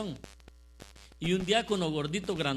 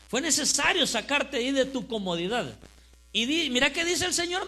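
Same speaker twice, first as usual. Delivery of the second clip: higher, louder prophetic pronouncement; retold prophecy; 6 semitones higher, 5 dB louder than usual. Man praying over the preacher delivers God's message, proclaimed emphatically. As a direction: declare it as an urgent message from God.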